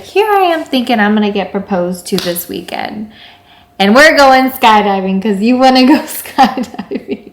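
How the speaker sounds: retold sass, loud toward the end; sassy attitude. Girlfriend turning to her boyfriend about skydiving instead of proposal, sassy. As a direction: give it a little sassy attitude, punching it up. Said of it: "in my little sassy attitude".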